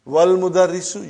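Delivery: "Wal mudarrisu" linked with no glottal onset on al; hamza dropped. Shown as a demonstration. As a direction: say "Wal mudarrisu" as one joined phrase. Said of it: "you did not pronounce hamza".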